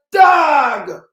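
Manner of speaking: sudden loud bark of a word; shouted call. Retold or imitated. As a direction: yell it out like calling someone. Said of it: "people don't go like".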